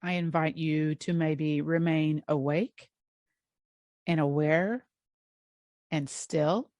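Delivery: unhurried guided-relaxation voice with long pauses; guided meditation. Real, not acted. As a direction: gently guide them into rest, leaving space between phrases.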